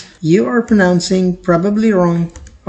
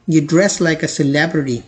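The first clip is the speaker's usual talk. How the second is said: slow example sentence; 2 semitones lower, much slower than usual. Shown as a demonstration. Teacher reading the celebrity sentence slowly. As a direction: read slowly and clearly. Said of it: "sentence की तरफ देखिए".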